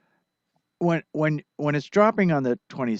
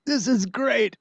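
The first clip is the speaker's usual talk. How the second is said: higher, louder delighted exclamation; excited quote; 11 semitones higher, 4 dB louder than usual. Retold or imitated. Friend on getting the recorded track, excited. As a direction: retell his delight in a high, loud voice. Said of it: "he was like".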